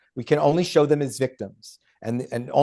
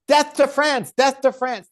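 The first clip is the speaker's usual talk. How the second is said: higher mock chant, slightly louder; mock scream; 9 semitones higher, 3 dB louder than usual. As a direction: imitate a shouting crowd, lightly.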